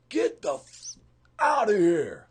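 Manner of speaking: loud angry yell to get out; retold yell. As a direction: bark him out of the room. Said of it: "that guy just screamed at me".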